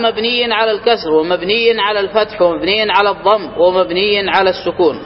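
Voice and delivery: formal text recitation; reciting the text. Acted. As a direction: read the rule out like a set text. Reads the grammar text aloud.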